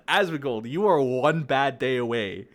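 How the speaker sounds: loud threatening shout. Real, not acted. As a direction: yell it as a warning.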